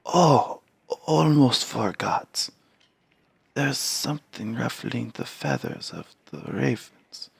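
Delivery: put-on high, slow, hushed old Varl; old giant voice.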